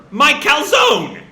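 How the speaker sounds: indignant outcry, high at first, then easing into a demand; hammed-up outrage at being robbed; acted anger. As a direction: wail the loss, then lay down the law. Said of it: "Jet's anger".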